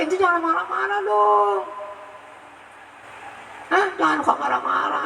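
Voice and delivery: high, excited preaching rant that breaks into a shout; worked-up mock rant. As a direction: whip up the crowd with mock outrage. (ceramah berapi-api dengan nada tinggi, setengah berteriak)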